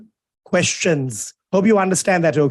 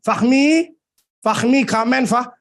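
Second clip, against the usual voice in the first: higher-pitched mock call to a student; 5 semitones higher than usual. Teacher pretends to summon his student, calling out. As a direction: call him over, pitched up.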